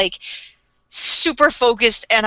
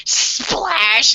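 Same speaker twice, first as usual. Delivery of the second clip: drawn-out vocal sound effect of a splash; imitated splash. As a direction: act out the splash as a word. Imitating the fall into mud.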